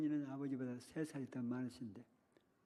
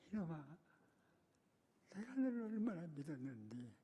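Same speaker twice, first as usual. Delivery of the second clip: soft, choked reproach, voice breaking; quietly heartbroken scolding through tears; tearful teacher; 3 semitones higher, 4 dB quieter than usual. Retold or imitated. Weeping teacher to the pupil he trusted, soft and tearful. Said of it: "그렇게, 그렇게 우는 거예요".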